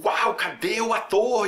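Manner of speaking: high, loud-edged slow wow; put-on astonished voice; mock amazement. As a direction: exaggerate a dazzled viewer's reaction. Imita espectador impressionado, negando-o.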